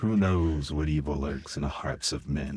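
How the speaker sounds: low dramatic radio announcer; ominous old radio narrator; Shadow radio voice. Retold or imitated. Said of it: "he would go".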